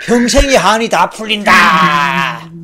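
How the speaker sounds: slow, crying shout of release; tearful outcry. Acted. The father cries out that his lifelong grief is gone. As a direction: cry it out, a lifetime's grief released. Emcee voicing overjoyed father.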